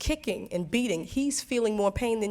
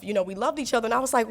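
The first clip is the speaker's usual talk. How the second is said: ordinary delivery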